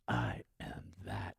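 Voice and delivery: slow, breathy whispered affirmation. Shown as a demonstration. Teacher voicing the inner affirmation, whispered. Mantra awareness spoken inwardly.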